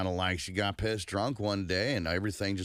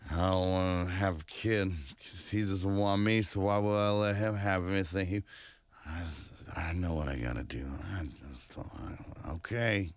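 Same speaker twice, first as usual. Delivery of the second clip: put-on drunk voice. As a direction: talk like you've had too many. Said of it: "I love your drunk voice".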